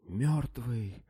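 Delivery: high gasped cry of fear; gasped in terror. A narrator's reading. Terrified slave gasps out the news to his master. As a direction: breathe it out through chattering teeth. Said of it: "выдохнул несчастный сквозь стучащие зубы".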